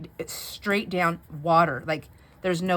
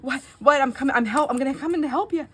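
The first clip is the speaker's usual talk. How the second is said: husband's reply; 9 semitones higher, 6 dB louder, faster than usual. Retold or imitated. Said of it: "He goes".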